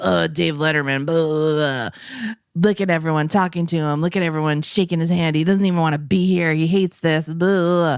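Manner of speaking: quick, resentful grumbling run; fast bitter rant. Retold or imitated. Comedian ranting fast and bitterly about his rival. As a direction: rattle off the complaints like an endless grudge. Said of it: "And then this guy was like".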